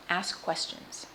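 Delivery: soft, unvoiced, intense whisper; whispered plea. Real, not acted. Cancer patient urging viewers in a whisper to ask questions. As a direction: breathe it out, urgent and hushed.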